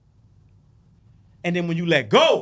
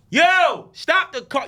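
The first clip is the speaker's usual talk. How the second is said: louder and higher, stop dragged out slow; higher, louder urgent command; urgent warning; 9 semitones higher, 6 dB louder, slower than usual. Retold or imitated. Repeats the warning voice.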